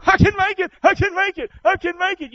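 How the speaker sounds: high, strained chant of I can make it; mock self-pep talk. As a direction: imitate someone forcing willpower. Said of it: "You ain't gonna make it if that's all you got".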